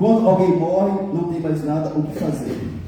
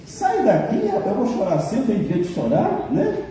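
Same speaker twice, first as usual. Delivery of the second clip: high, huffy mock of a grieving person; a mourner snapping back, half-joking; indignant mourner; 5 semitones higher than usual. Pastor voicing a mourner who tells consolers off, high indignant mock.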